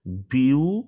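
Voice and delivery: "বিউ" drawn out as a separate syllable; sílaba isolada. Shown as a demonstration. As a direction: hold "বিউ" slowly, on its own. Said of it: "syllable".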